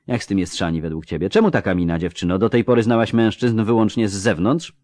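brisk, brightly voiced halfling surgeon; lightly voiced doctor, dry and matter-of-fact; surgeon Rasty. Halfling surgeon assessing a wounded man, dryly brisk.

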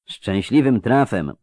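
slow drawl; lightly voiced drawling character; drawled syllables. A narrator's reading. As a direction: draw out the syllables. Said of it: "ten przeciągający sylaby".

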